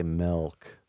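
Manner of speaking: "milk" with a lax E, MELK; lazy "melk". Shown as a demonstration. Explaining how some people talk, lazy MELK for "milk". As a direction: let the I in "milk" slacken to E. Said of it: "get real lazy and they say milk".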